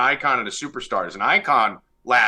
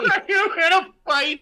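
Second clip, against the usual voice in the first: laughing. Real, not acted. Teasing with high laughing voice.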